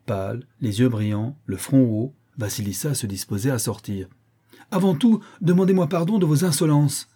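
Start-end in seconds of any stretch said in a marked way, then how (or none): 4.7-7.1 high, tense angry demand; through clenched teeth. A narrator's reading. Aunt demands an apology from niece, through clenched teeth. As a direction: demand it with barely held-in fury. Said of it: "les dents serrées".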